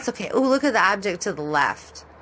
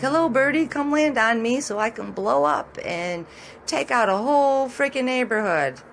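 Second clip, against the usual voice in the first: mock transformer voice; 5 semitones higher than usual. Vlogger voicing a transformer tempting birds, lightly hammed-up. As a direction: sweet-talk the bird into landing.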